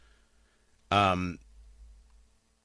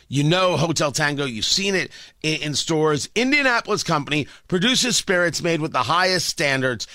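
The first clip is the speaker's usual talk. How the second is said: chipper 1950s ad. Acted. Host reads sponsor ad.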